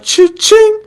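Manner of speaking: high, sing-song cha-ching; hyped sign-off chime; cha-ching jingle. Pretend. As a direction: toss out a playful cash-register cha-ching. Podcast outro sign-off flourish.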